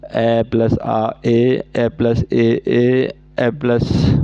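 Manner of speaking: ए plus आ spelled out slowly, each vowel held; ए plus आ said slowly, sound by sound; slow vowel-combining demo. Shown as a demonstration. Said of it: "इनकी संख्या चार होती है इस प्रकार".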